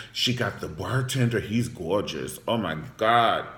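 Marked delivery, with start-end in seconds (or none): 1.4-3.4 put-on slipping into a playful New York accent; lower-pitched, drawn-out New York accent. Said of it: "Made me talk in my New York accent".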